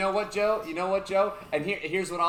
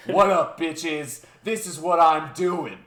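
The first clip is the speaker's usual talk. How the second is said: punchy, loud mock brag; retold gusto; 5 dB louder, slower than usual. Presenter to his audience on first slide, retold gusto. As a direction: announce it with cocky gusto, imitating him. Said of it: "with the most gusto".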